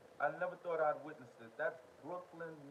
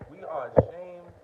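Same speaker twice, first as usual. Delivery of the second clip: mock loud quote; 3 semitones higher, 14 dB louder, slower than usual. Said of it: "Mark Brown said".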